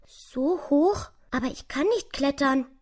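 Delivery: small, high, timid mouse voice; ängstliche Maus. A narrator's reading. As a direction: ask it fearfully, very high. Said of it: "ängstlich sah die Maus". (ängstlich, mit hohem Mäusestimmchen)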